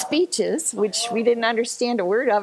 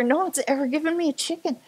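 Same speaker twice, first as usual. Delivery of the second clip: amused protest; 8 semitones higher, faster than usual. Retold or imitated. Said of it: "I said to her".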